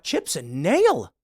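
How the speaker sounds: "Chips and nail?" drawn out slowly in disbelief; slow, baffled "Chips and nail?"; incredulous echo. Retold or imitated. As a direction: repeat "Chips and nail?" as if you can't believe it. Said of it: "I'm like".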